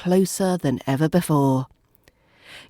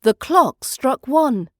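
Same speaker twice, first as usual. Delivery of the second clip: sing-song rhyme reading, a bit higher; nursery rhyme recitation; 4 semitones higher than usual. Acted. Teacher reading rhymes to English learners, sing-song. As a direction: recite it like reading to small children.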